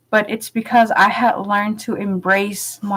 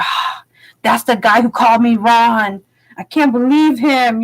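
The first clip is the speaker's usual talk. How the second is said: mock indignation; 4 dB louder than usual. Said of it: "I'm just like".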